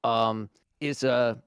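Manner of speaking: ordinary talk, nothing marked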